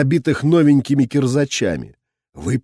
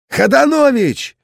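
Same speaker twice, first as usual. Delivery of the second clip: calling out; 12 semitones higher, 4 dB louder than usual. A narrator's reading. Calling the sergeant across battlefield.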